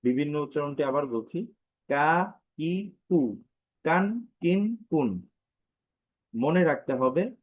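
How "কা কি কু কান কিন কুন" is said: কা, কি, কু, কান, কিন, কুন each separate with rising tune, last falling; short, unstretched syllables. Shown as a demonstration. Teacher drills the various pronunciations, unstretched কা, কি, কু, কান, কিন, কুন. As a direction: recite কা, কি, কু, কান, কিন, কুন without stretching. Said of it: "আমরা টান দিব না".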